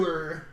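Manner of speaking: "whore" stretched to "hoo-er", imitated; Charles Dance impression. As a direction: mimic "whore" with a U in it. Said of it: "there's a U in there".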